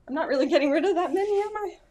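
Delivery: laughing through it, rising to a squeak on "am I?"; amused laughing confession. Real, not acted. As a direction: giggle at yourself as you admit it. Laughing at own indecision.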